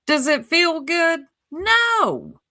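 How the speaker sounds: high, loud mock exchange; mock question. Critic lectures Ziggy with a high, loud mock answer. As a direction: answer your own question mockingly.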